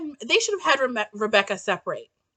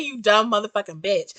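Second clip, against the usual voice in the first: muttered insult; 8 semitones lower, 6 dB quieter than usual. Retold or imitated. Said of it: "I wanted to say".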